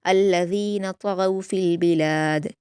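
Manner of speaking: slow, melodic Quranic recitation; measured Quran recitation; tajweed recitation. Shown as a demonstration. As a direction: recite it slowly and carefully as a model for students. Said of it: "त्वा और गैन को पुर पढ़ा जाएगा".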